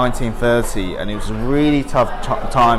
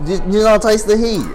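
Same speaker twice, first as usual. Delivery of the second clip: surprised; 10 semitones higher, 4 dB louder, faster than usual. Real, not acted. Host amazed she tolerates spice.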